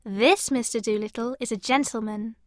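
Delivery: high-pitched surprised maid. A narrator's reading. Maid describes the visitor to her master, high and surprised. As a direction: insist on it in a high maid's voice. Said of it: "said the maid in surprise".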